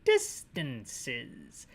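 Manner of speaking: low "Distances" stretched in three parts; separated syllables. Shown as a demonstration. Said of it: "You separate into three distances".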